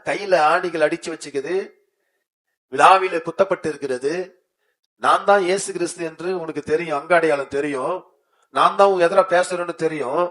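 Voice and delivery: Jesus speaking to Thomas. Acted. Jesus tells Thomas he surrendered on seeing him, loud and commanding. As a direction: proclaim it as Jesus showing his wounds. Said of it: "அதற்கு இயேசு".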